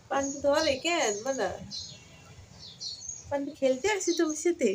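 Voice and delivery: high sing-song pet talk. Real, not acted. Baby talk to the cat. (পোষা বিড়ালের সাথে আধো আধো কথা)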